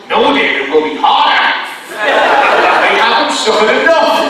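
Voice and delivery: loud mock-Irish impression of Chris; Irish accent. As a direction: refuse sternly in a hammed-up Irish accent. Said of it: "That's my best Irish accent".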